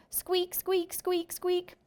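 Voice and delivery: high squeaky hamster voice; hamster squeaks. Acted. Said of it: "the more Humphrey squeaks".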